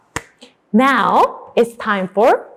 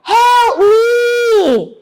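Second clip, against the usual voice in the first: high, drawn-out shout; acted distress call; cry for help; 10 semitones higher, 4 dB louder than usual. Shown as a demonstration. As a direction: lead the class in a desperate yell. Models wolf's cry for class.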